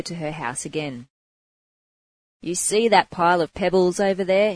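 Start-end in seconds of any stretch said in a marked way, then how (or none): 2.4-4.5 loud, stern preacher's proclamation; proclaiming. Acted. Monk confronting the prostitute about her sins, loud stern proclamation. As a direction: declare it like a scolding monk. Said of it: "he proclaimed".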